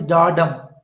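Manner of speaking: "da dum" with the beat landing on "dum"; weak "da", then a firm "dum"; stress on dum. Shown as a demonstration. Teacher demonstrating iamb to the class, stress on "dum". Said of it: "the first is unstressed".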